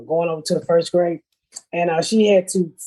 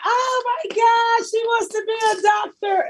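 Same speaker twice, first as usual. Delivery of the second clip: hammed-up high gasp of admiration; gushing crowd; 14 semitones higher than usual. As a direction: coo it like impressed parents. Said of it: "And everybody".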